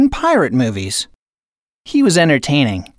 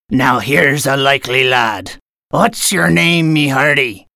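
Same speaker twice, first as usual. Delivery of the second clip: pirate captain. Acted.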